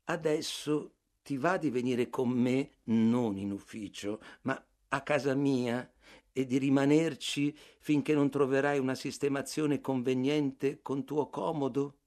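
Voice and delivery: tono gentile e cortese, senza forzare; garbato. Acted. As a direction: invito garbato, trattenendo l'irritazione. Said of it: "nel tono più garbato che potessi assumere". (il narratore invita Bartleby a casa, garbato)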